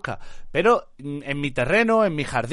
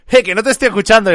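loud, raised mock interruption; mock heckle; 5 semitones higher, 8 dB louder, faster than usual. Streamer acting out the Dallas debate, loud mock heckle. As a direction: imitate someone shouting over an opponent.

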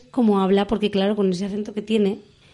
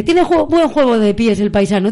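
put-on a light touch of a Cantabrian accent, a little louder; 5 dB louder than usual. Host quotes the Cantabrian youtuber's commentary with a light Cantabrian accent. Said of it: "Con ese acento que tiene".

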